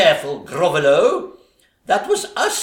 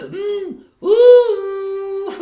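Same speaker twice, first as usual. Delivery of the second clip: excited ooh; 13 semitones higher, 6 dB louder than usual. Acted. Stepsister swooning at suitor.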